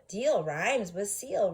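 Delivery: slow, stressing "Deal" and "seal"; slow emphasis. Shown as a demonstration. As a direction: lean on the rhyme slowly. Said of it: "that's right".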